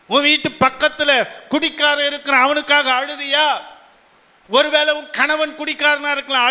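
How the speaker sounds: insistent sermon delivery in driving, repeated phrases; urgent preacher's challenge; impassioned preaching. Acted. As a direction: press the congregation with searching questions. Preacher challenges congregation with urgent questions.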